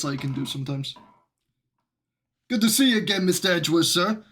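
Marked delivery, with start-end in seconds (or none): 2.5-4.2 Gumshoe voice. Acted. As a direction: belt it out like a keen, loyal cop. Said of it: "till I get my Gumshoe voice back".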